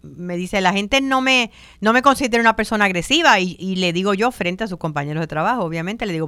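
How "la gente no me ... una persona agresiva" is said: higher, louder imitated protest; quick, mildly forceful retold denial; loud talker. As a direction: insist in a raised voice, imitating a loud colleague. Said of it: "yo hablo bien duro".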